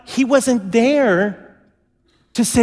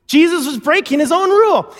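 emphatic repeat; 7 semitones higher than usual. Acted. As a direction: drive it home the second time. Repeated with more force.

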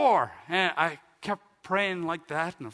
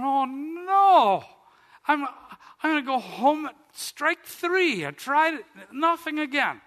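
high, loud wail of defeat; hammed-up dismay, drawn out at first; mock despair; 10 semitones higher, 8 dB louder, slower than usual. Man retells failing a third time at the altar, wailing.

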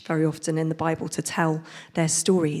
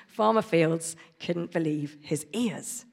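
storybook reading voice; reading to children. Acted. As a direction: read it like a picture book to kids. Reads picture book aloud.

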